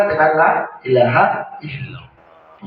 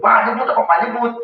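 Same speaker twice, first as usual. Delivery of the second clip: impatient repeated nagging; faster than usual. Shown as a demonstration. Preacher mocking relatives who nag the dying. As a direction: badger the dying man. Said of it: "dia aja ngomong gitu".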